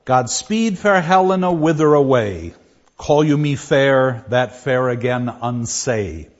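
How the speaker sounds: reading verse aloud. Shown as a demonstration. Teacher reads Helena's lines aloud to the class, declaiming. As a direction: give the couplet a declaiming lift. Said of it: "line one eighty".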